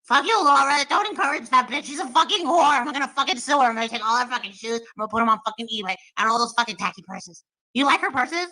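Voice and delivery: hammed-up jealous tirade over purses; a foul-mouthed rival cursing out a viewer; Molly impression. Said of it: "How do you do impressions so good?".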